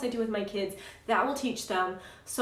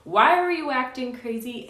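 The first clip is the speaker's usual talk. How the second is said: mild mock yell, pitched higher; retold yelling; 4 semitones higher, 4 dB louder than usual. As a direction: scold in exasperation, imitating your own outburst. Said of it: "and I yelled at him".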